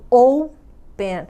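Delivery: slow open, weight on its first syllable; stress on first syllable. Shown as a demonstration. Teacher showing the strong syllable of open, first syllable stressed. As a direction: open with a long, drawn-out "o". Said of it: "a sílaba mais forte é o ou".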